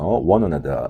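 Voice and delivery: 영국식 "one another" 끝 R 없이 천천히; 영국식으로 R 죽여 말하기; British one another. Shown as a demonstration. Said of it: "영국 발음은 R 발음이 죽어서". (영국식 "one another")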